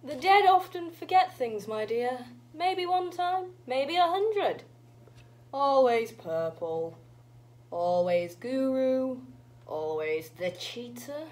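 put-on musing old granny witch. Granny recalls other times, musing old witch. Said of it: "an old witch".

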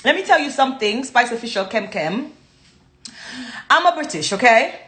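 lively put-on British accent. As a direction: play up being British, with swooping intonation. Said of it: "go into my British accent".

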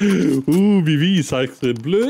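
slow hammed-up French accent; teasing a teammate in fake French; mock French. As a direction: ham up a cartoon Frenchman. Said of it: "you sounded French there for a second".

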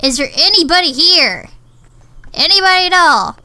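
real searching holler, rising in pitch; yelling for people. Real, not acted. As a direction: call out to find anyone around. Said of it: "I don't know why I'm yelling".

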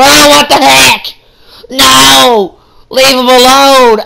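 mock indignant fan shout; outraged yelling. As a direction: shout at the heel to stop. Protests at the ring.

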